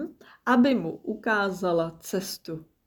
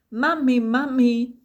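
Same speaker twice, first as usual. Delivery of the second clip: high, loud shriek of mami; 6 semitones higher, 6 dB louder than usual. Acted. Little croc shrieking at mum up a tree. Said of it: "zaječela Snappy".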